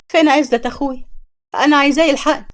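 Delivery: a sister sobbing for her brother's help; crying sister. Acted. Suad bursts in crying, asking for her brother. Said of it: "وهي عمالة تعيط".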